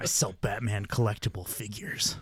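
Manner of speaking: smooth radio ad read. Pretend. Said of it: "slip into your radio voice".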